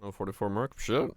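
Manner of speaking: ordinary talk, nothing marked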